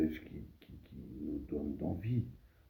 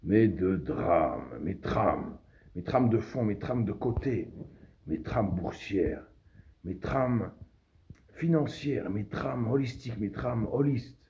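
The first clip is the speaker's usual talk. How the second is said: loud, raised orator's opening; declaimed address; 5 semitones higher, 4 dB louder than usual. Acted. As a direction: declaim the list to the crowd.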